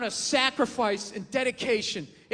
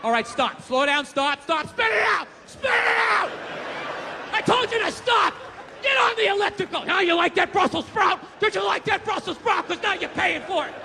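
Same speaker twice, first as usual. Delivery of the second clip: high, loud barking trainer; yelling chef; 6 semitones higher, 5 dB louder than usual. Retold or imitated. Personal chef berating his client, high furious yell. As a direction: scream orders like a drill sergeant. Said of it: "he's like".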